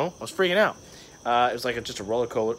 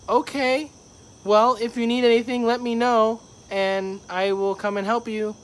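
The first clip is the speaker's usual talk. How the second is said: very high, louder helpful voice; retold awkward reassurance; 10 semitones higher, 4 dB louder than usual. Worker leaving an old lady waiting, awkward high reassurance. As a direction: pitch it way up and offer help uneasily.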